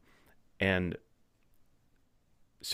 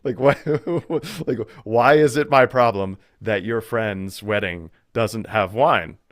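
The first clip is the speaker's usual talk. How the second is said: incredulous son; 3 semitones higher, 7 dB louder than usual. Retold or imitated. Jesus laughing off his mother at the wedding, loud and incredulous. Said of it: "It's like".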